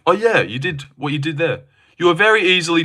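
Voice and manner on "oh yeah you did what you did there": mock viewer voice, a little higher; higher-pitched mimicry of a commenter; mimicking the viewer. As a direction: imitate the chatter in a higher, put-on voice. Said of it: "you were like".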